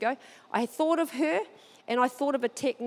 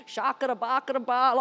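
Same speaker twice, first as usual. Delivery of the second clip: excited babble. Retold or imitated. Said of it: "I'm like jumping".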